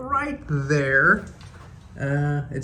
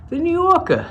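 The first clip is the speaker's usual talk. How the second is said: high, louder silly voice for "the New Yorker"; goofy sign voice; 8 dB louder than usual. Pretend. Vlogger admiring the view from his window, high silly voice. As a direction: belt out the hotel name like a joke announcer. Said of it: "I don't know why I say it that way".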